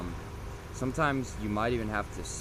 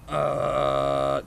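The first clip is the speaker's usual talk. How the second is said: slower grinding grunt; false fold growl; 5 semitones higher, 9 dB louder than usual. Shown as a demonstration. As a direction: start with a slow grind. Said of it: "So you'll go from".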